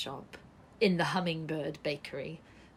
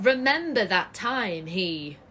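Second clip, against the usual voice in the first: mocking echo; 5 dB louder than usual.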